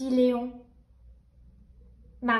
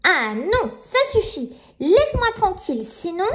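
put-on little girl voice; 4 semitones higher than usual. Nina confronting nightmare.

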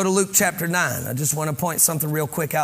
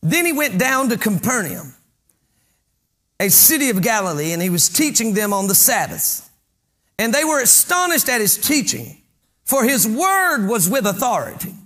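projected pulpit reading; emphatic, declamatory Bible reading; scripture reading; 4 semitones higher, 3 dB louder than usual. Acted. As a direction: read the verse out like a preacher. Reads scripture to congregation.

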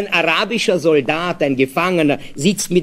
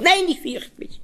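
put-on high, frightened little boy; scared child; 14 semitones higher, 3 dB quieter than usual. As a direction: squeal it like a scared small child. Child refuses father again.

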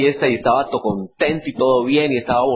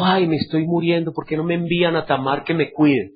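faking sick. Retold or imitated. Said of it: "se hizo el enfermo".

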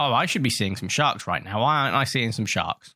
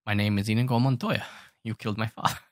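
Inigo Montoya quote; faster than usual. Retold or imitated. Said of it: "in a fencing position and go".

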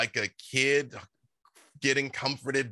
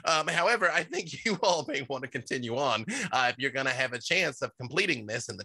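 awakened shrub; 3 semitones higher than usual. Acted. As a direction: apologize cheerfully as the shrub. GM voices the shrub again.

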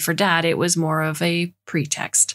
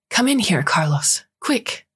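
calling out; 4 semitones higher, slower than usual. Acted. Mom calling from kitchen.

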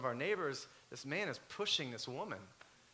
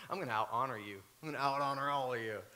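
a lightly voiced playful rival, a bit lower; mock competitive boast; 3 semitones lower than usual. Preacher playing Paul's competitive spirit, lightly mock boastful. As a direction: tease them like a cocky rival. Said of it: "Paul's a little competitive in his nature".

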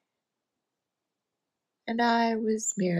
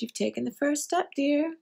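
kindly lady; 6 semitones higher than usual. Retold or imitated. Nice lady's encouragement, quoted.

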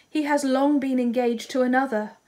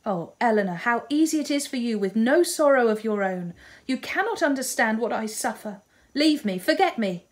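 bitter outburst; 4 semitones higher, 3 dB louder than usual. Acted. Marianne lashes out at Eleanor.

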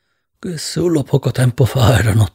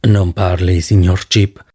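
lower, calm physician voice; doctor speaks lower, calm and polite; 6 semitones lower, slower than usual. Acted. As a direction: soothe the patient as his doctor. Doctor character voice.

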